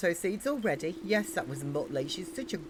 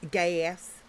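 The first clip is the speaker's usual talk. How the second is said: American accent. Shown as a demonstration.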